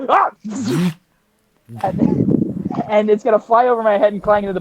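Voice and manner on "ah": startled yelp. Acted. Acting startled at the booming voice.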